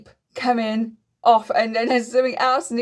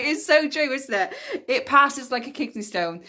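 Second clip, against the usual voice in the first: laughing; 4 semitones higher than usual. Real, not acted. Laughing at kidney stone quote.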